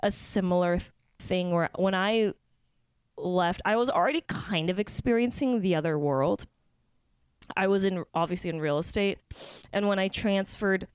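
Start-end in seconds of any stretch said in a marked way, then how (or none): 1.2-10.9 talking through hiccups; hiccuping between words. Real, not acted. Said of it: "I have hiccups and I can't get rid of 'em right now".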